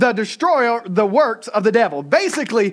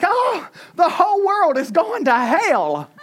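put-on Southern accent; 6 semitones higher than usual. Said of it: "I get a real Southern accent".

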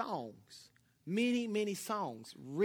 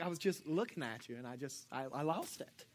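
dazed admission; 6 semitones lower, 8 dB quieter than usual. Retold or imitated. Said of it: "I'd be like".

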